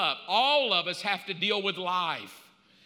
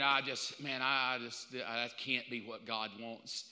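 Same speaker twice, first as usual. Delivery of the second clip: low, soft muttered doubt; voicing his own doubt under his breath; quiet disbelief; 8 semitones lower, 6 dB quieter than usual. Preacher recalling his doubt, low and quiet disbelief.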